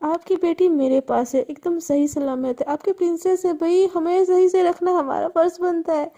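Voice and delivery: slow, amused villain, chill तो; lazily taunting the panicked father; mock-casual taunting drawl. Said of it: "हंसते हंसते बोलते". (चिढ़ाते हुए धीमी हंसी भरी आवाज़)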